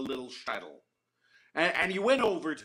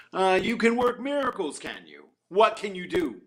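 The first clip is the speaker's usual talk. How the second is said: doubtful challenge, half mocking; sceptical; 3 semitones higher, 6 dB louder than usual. The shamus scornfully doubts that the beggar can work miracles. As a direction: raise an eyebrow at a boast.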